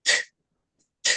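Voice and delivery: unvoiced bursts of "트"; spitting T. Shown as a demonstration. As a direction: spit out "트" with air only. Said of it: "침 튀기는 소리". (침 튀기듯 "트")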